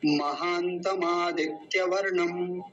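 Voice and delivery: महानतम आदित्य वर्णम run together as one slow word; joined pronunciation. Shown as a demonstration. Teacher showing the two words joined, slow linked demo. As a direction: link महानतम into आदित्य without a break. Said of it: "दोनों को मिलके क्या बना?".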